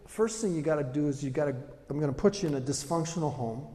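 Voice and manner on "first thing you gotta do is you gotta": ordinary delivery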